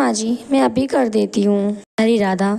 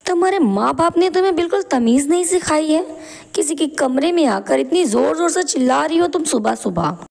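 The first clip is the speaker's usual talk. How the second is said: higher, fast, contemptuous telling-off; angry scolding; 4 semitones higher than usual. Acted. Sangeeta scolds her sister-in-law for shouting at dawn, angry and high. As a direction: scold her sharply for the noise.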